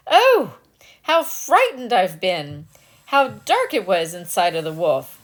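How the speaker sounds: put-on the rescued girl cries out; frightened cry.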